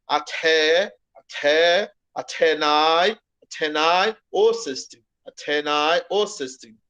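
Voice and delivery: "Atenai" with a puff of air after the T, drawn out at first; aspirated T. Shown as a demonstration. Teacher shows the aspiration to the class, aspirated T. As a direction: aspirate the T in "até" and "Atenai", then add "o cestim". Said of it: "a aspiração muito bem. Seria assim".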